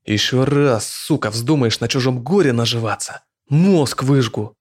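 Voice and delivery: eerie hissed threat, alien voice; hushed creeping horror. Acted. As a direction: hiss it in a voice not his own. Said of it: "прошипел каким-то не своим жутким голосом".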